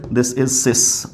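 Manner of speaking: very slow, word by word; teacher dictating the answer; very slow model answer. Shown as a demonstration. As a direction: stretch out each word for the class. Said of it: "क्या बोल रहे हैं".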